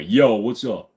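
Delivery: drawn "yo", low casual replies; low, laid-back greeting; answering in kind. Shown as a demonstration. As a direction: toss back street-style greetings. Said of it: "I have to answer back that way".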